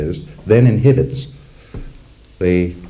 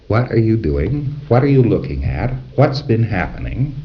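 snoopy questions. Shown as a demonstration. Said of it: "You get the idea?".

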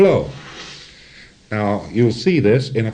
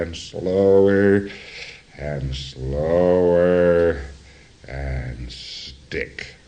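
slowing down; 5 semitones lower, much slower than usual. Retold or imitated. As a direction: drag it out like a machine running down. Imitates the wave slowing to a stop.

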